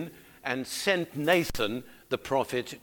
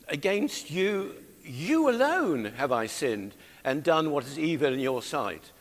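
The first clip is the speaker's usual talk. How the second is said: congregational scripture reading. Acted. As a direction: read the confession out for all to follow. Leads congregation reading the verse.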